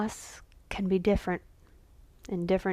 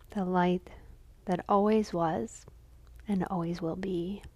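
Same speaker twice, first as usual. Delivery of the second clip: measured dedication with long pauses; contemplative offering. Real, not acted. Lighting a candle for a friend's father, reverent offering. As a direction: let each phrase rest in silence.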